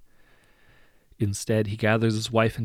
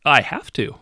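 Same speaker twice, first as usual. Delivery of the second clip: fake sympathy; 6 semitones higher, 9 dB louder than usual. A narrator's reading. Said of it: "a hint of sympathy ... He sounds hollow".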